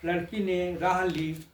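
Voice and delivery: measured stage-poet delivery; lilting satirical verse recital; poem recitation. Acted. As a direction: recite verse line by line with pauses.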